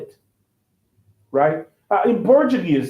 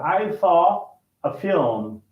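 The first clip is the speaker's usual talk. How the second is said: slow separated words; slower than usual. Shown as a demonstration. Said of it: "try to link these two words".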